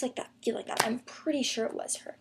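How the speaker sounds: whispered aside; whispering. Real, not acted. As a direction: hush it, half to yourself. Unsure aside.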